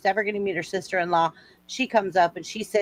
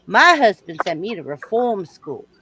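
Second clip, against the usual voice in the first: louder Southern belle reply; Southern accent; 6 dB louder than usual. Acted. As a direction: declare it with Southern poise. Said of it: "I like your Southern accent".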